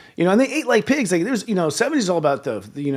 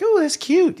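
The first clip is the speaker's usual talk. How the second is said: mock grandma; 12 semitones higher, slower than usual.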